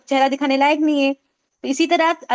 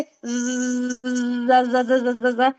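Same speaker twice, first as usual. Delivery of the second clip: put-on child's car buzz; 3 semitones lower, much slower than usual. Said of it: "छोटा बच्चा गाड़ी चला रहा है".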